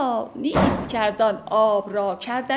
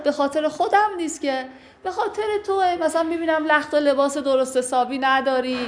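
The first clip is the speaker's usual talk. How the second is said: higher, earnest pleading; pleading wife; 5 semitones higher, faster than usual. Acted. Teacher voices the wife insisting it is for her husband. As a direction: insist it is all for him.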